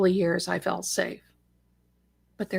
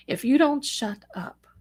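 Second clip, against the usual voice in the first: lightly imitated cop's threat, higher pitched; stern cop; 5 semitones higher than usual. Cop warning the screaming man, a hint of stern order. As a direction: quote the officer with a slightly raised pitch. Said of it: "I don't talk like that, but the cop did".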